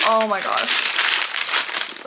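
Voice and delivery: slow, breathy oh my gosh; breathless gasp. Real, not acted. Nervous unwrapping, a breathy gasp. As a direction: let it out on a gasp.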